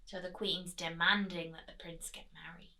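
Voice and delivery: soft whisper to the listeners; whispered aside. Real, not acted. Storyteller whispering to the children about the Queen. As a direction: drop to a hush, just for them.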